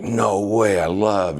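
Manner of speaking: imitated fan enthusiasm, pitched high; high-pitched, gushing retold reaction; mock excitement. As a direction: retell an excited fan's delighted disbelief.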